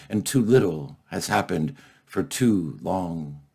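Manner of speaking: measured poem reading with weighty pauses; poetry recital. Acted. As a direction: recite it solemnly, letting phrase endings fall. Recites his poem to the audience.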